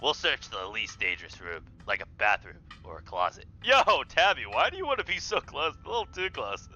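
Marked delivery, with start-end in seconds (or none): 3.6-6.7 nervous voice. Acted. Player voices nervous character.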